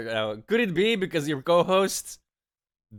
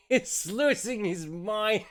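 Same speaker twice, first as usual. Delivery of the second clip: laughing; 5 semitones higher, much slower than usual. Real, not acted. Laugh heard on line.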